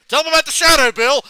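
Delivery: high, full-volume mock bellow; angry Bernie. Imitating Bernie as NASA calling on Bill, exasperated shout. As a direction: yell the order in exasperation. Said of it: "When he gets mad".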